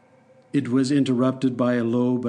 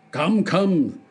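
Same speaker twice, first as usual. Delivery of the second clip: a touch of impatience, higher; impatient; 5 semitones higher than usual. Acted. The king presses Hop Frog, mildly impatient. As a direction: hurry the jester along. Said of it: "said the king impatiently".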